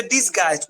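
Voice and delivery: teacher's model "dis-gaist" for ডিসগাইজড; pronunciation demo. Shown as a demonstration. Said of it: "উচ্চারণ হচ্ছে".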